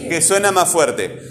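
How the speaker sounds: "Que suena más fuerte" slowed down for emphasis; slow emphatic repeat. Shown as a demonstration. Teacher confirming a pupil's answer to the class, slow and emphatic.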